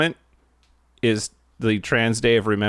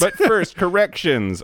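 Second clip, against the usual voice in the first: announcer voice; 9 semitones higher, slower than usual. Acted. Segment intro announcement.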